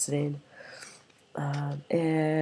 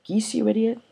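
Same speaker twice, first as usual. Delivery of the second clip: mock outrage; 8 semitones higher, 5 dB louder than usual. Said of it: "he's like".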